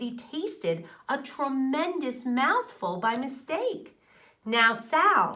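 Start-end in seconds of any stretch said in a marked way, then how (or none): 4.4-5.3 louder motherly call; a mother speaking to her child. A narrator's reading. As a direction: call her daughter without looking. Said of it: "said little Sal's mother".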